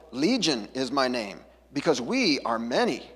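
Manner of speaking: a hint of a low, slow demon; mild evil voice. Demon answering Jesus, a touch of slow low menace. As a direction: lightly darken it like a horror-movie demon. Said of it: "like, this evil voice".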